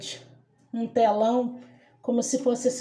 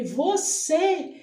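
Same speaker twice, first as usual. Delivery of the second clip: retold cry; 5 semitones higher than usual. Dreamer confronting the Antichrist on the screen, retold cry. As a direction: cry it out high, without full volume. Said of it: "eu gritei".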